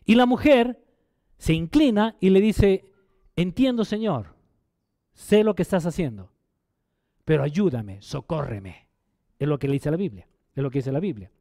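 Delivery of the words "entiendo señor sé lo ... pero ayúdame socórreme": pleading. Retold or imitated. Woman begging Jesus for help.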